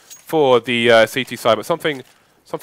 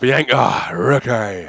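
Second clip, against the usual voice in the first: theatrical Cockney impression; EastEnders accent; much slower than usual. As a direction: mimic a London soap character calling out. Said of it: "like, an EastEnders accent".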